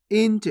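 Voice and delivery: इंच as inch with a half n; correct nasal reading. Shown as a demonstration. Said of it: "इनच नहीं पढ़ना". (इंच: आधा न के साथ, इन्च)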